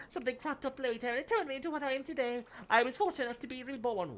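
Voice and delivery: muffled robot voice through cupped hand; hand over mouth. Acted. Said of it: "sounds like a drowning person".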